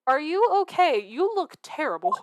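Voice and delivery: a hint of a shy young girl greeting. Gamer reads Iris greeting Sholmes, lightly timid. Iris voiced in game dialogue.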